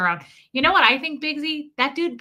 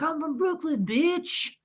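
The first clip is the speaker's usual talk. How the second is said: mock tough guy; 6 semitones higher than usual. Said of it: "He was like".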